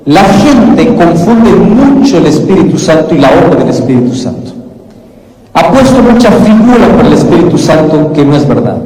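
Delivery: ordinary talk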